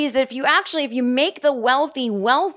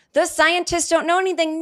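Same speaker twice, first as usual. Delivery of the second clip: mock sing-song sneer, pitched higher; mocking quote; 8 semitones higher than usual. Podcaster mocking people who dismiss scientists, sing-song. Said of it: "they're starting to say things like".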